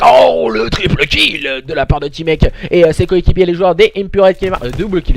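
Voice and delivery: excited caster shouting a triple kill. Real, not acted. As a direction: burst out over the big play. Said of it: "je me suis un peu excité".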